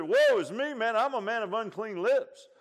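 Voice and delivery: high, loud anguished cry. Retold or imitated. Preacher quoting Isaiah's confession, crying out. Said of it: "when Isaiah cried out".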